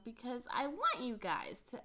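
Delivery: a real voice crack. Real, not acted. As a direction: let the voice break mid-phrase. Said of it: "my voice cracked".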